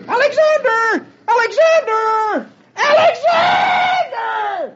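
very high, drawn-out calls, slowing and stretching; screaming a name. Acted. Dagwood screams for his son down the street, high drawn-out calls. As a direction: yell down the street for the boy. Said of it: "screaming at the top of his voice".

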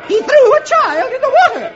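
shrill high accusing cry; alarmed woman. Acted. Woman tells the officer about Beetle. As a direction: point and accuse in panic.

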